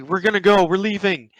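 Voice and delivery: high-pitched acted urgency; panicked placating. Scared pranksters promise gunman they will leave, acted panicked placating. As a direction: back off hastily, imitating alarm.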